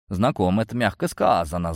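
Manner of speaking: ordinary delivery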